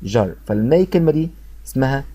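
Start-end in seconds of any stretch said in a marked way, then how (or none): 0.0-0.3 "جر" with a voiced zh, no t before it; corrected zh syllable. Shown as a demonstration. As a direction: model "جر" as zher, in contrast to cher. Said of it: "لا هنا جر".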